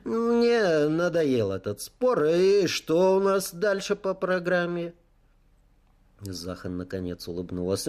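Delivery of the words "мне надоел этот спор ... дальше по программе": higher, lightly smiling voice; change the subject with a friendly smile; drawn-out opening, lifted friendly tone; as warm as possible. A narrator's reading. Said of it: "Я улыбнулся как мог теплее".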